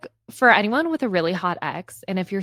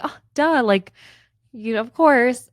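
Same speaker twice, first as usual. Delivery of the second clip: retold breezy reply, pitched up; laughing it off; 5 semitones higher, 3 dB louder than usual. Retelling her reply to her ex, laughing it off. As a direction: imitate yourself brushing it off, high and light. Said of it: "I responded just being, you know, like, laughing".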